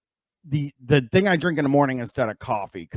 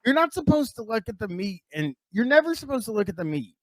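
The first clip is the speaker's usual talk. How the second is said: outraged; 10 semitones higher than usual. Real, not acted. Outraged about looking at meat.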